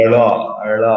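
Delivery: ড়-like র with the tongue curled back; retroflex r demo. Shown as a demonstration. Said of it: "মূর্ধন্য". (জিভ উল্টে ড়)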